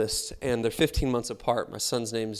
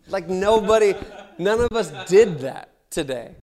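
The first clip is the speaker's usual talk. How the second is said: laughing; 6 semitones higher, 7 dB louder than usual. Real, not acted.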